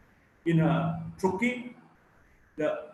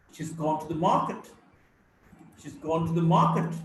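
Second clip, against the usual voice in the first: "She's" and "to the" quick and light; content-word stress. Shown as a demonstration. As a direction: stress "gone" and the first syllable of "market". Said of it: "only one syllable will be stressed".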